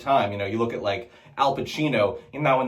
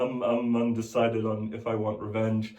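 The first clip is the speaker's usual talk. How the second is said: Mark Ruffalo; 3 semitones lower, 6 dB quieter than usual. Retold or imitated. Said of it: "Mark Ruffalo".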